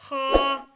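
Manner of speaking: खा said thick and full; heavy letter. Shown as a demonstration. Teacher showing a thick letter, heavy. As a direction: give खा a heavy, rounded sound. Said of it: "इसको थोड़ा मोटा पढ़ना है".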